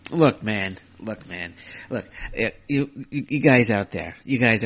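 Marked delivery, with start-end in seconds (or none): 0.1-0.4 exasperated sigh. Real, not acted. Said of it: "I'm just getting worked up here".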